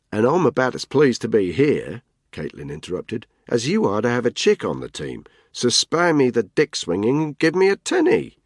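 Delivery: flat Australian menace, promise it; Australian threat. Acted. Caitlin warns Tony off calling her love, Australian accent. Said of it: "Her accent was heavily Australian".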